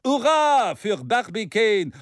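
a touch of modest cheer. Acted. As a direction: give the credit away. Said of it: "rief der Redner bescheiden".

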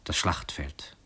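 breathy whisper, barely voiced; a hushed confession. A narrator's reading. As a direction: breathe the word out. Kosmus names his only refuge.

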